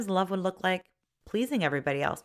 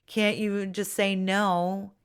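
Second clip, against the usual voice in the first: belittling; 4 dB louder, slower than usual. Shown as a demonstration. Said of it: "You wouldn't belittle them and say".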